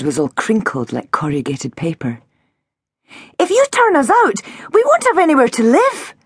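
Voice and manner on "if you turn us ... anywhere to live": put-on high, defiant child's protest; glaring. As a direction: throw it at her accusingly. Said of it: "Tilly glared".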